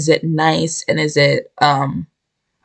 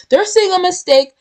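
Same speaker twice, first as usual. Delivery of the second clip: higher, upbeat voicing of the affirmations; confident self-talk; 5 semitones higher than usual. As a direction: talk yourself up and mean it. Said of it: "tell yourself you are".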